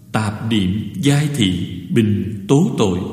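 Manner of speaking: slow, measured reading of a Buddhist verse; verse recitation. Real, not acted. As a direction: recite the verse slowly, phrase by phrase. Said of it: "tôi sẽ đọc qua bài kệ". (đọc kệ chậm rãi, ngắt từng nhịp)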